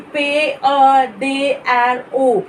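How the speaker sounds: P A D R O spelt letter by letter; spelling out. Shown as a demonstration. Teacher showing how he spelled his name, spelling out. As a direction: say P A D R O as separate French letter names. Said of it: "he spelled it out according to the alphabet".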